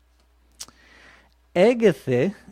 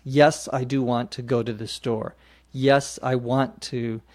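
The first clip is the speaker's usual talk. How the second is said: Yes and do both leaned on; emphatic yes. Shown as a demonstration. Teacher showing an insistent yes answer. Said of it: "another way of saying yes".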